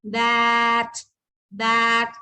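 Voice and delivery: "that" said whole and loud; blended word. Shown as a demonstration. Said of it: "let's join the sound".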